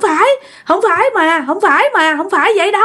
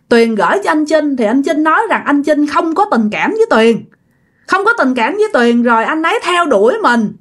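acted weepy explanation, pitch raised; earnest, plaintive higher voice; tearful, sincere pleading; 5 semitones higher than usual. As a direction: plead your innocence to a friend as if crying. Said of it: "vừa nói vừa khóc mà rất là thật lòng".

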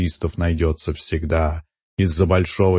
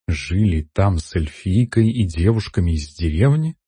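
puzzled. Acted. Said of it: "недоумённо переспросила Лакюс".

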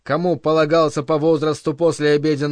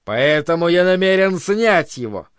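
denouncing oration. Acted. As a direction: denounce him before the whole hall. Director's public denunciation speech.

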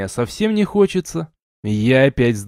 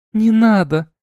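high, louder squeal of protest; 9 semitones higher, 4 dB louder than usual. A narrator's reading. She-wolf squeals at the hero's feather, high and loud. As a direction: shriek it playfully. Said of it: "взвизгнула волчица".

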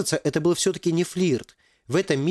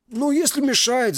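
veteran voice; 10 semitones higher, slower than usual. Acted. Veteran answers.

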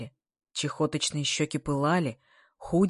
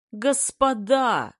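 high, loud, stretched-out cry; full-voiced shout; 6 semitones higher, 5 dB louder, much slower than usual. A narrator's reading. Kolya yells to outcry the meeting, shouting. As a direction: holler for attention. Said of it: "уже в голос закричал Коля".

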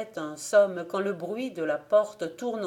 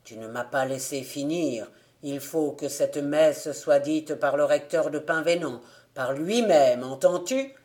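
the dead man insisting, lower; insistent ghost; 4 semitones lower, 3 dB louder than usual. Acted. The ghost insists the rector himself must say the mass, lower. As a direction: lower ghost voice, pressing the point.

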